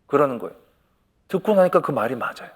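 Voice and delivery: normal talking voice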